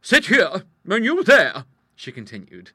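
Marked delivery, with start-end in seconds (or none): 0.0-1.6 loud, high seating orders; big-voiced lady in charge; commanding hostess. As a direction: direct them briskly with authority. Hostess orders visitors to seats.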